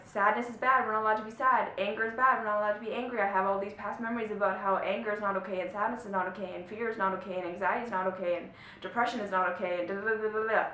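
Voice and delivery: mock the scared inner voice that forbids feelings; inner lizard voice. Teacher voicing the viewer's inner lizard, lightly scolding. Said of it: "That lizard voice is gonna come up and be like".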